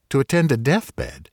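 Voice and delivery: can't believe what he heard; incredulous echo. A narrator's reading. Doctor echoes the stranger's errand, incredulous.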